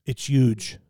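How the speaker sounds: Trump impression. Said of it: "he's doing the imitation game".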